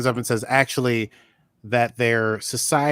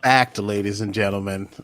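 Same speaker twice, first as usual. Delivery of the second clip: mock announcer; 3 dB louder than usual.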